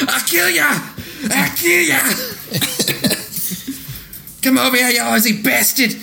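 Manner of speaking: high, squeaky mock yell; mock villain yell. Retelling the movie villain's fight cry, high squeaky mock yell. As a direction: screech it like a cartoon baddie.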